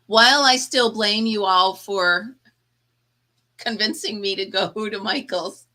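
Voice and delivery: laughing mock blame. Jokingly blames viewers, then thanks.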